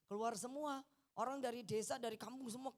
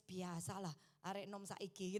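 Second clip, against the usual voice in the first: unbothered husband; 5 semitones lower, 5 dB quieter than usual. Retold or imitated. Husband's easygoing reply voiced.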